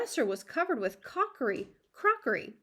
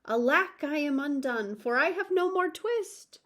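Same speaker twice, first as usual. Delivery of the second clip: despairing tailor; 5 semitones higher, 5 dB louder than usual. A narrator's reading. Tailor despairs over missing twist.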